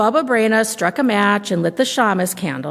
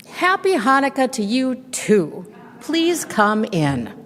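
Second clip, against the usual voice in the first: put-on a higher, sweet old granny voice; old woman welcoming a guest at the door, higher and sweet; old grandmother voice; 4 semitones higher than usual. Baba Brena welcomes guest.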